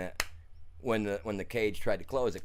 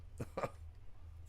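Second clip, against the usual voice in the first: quiet, breath-only little laugh; short chuckle; 13 dB quieter than usual. Real, not acted. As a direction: chuckle softly to yourself. Dismissive chuckle after telling the loss.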